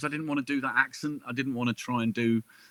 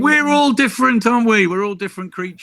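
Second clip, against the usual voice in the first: high, loud mock-indignant plea; playful protest; 11 semitones higher, 10 dB louder than usual. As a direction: sing out a playful protest, pitched way up. Playful retort to her outrage over cheese.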